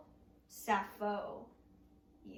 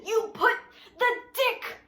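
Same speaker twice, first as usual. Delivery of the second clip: laughing insult; 3 semitones higher, 5 dB louder than usual. Acted. Punchline insult to Avery.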